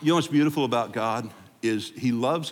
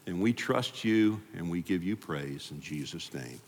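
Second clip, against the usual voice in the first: closing prayer; 3 semitones lower than usual. Acted. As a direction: pray over the congregation. Pastor leads closing prayer.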